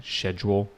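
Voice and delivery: "schedule" starting with a SH sound; British pronunciation. Shown as a demonstration. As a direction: say "schedule" the British way, as SHED-yool. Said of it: "British person for saying schedule".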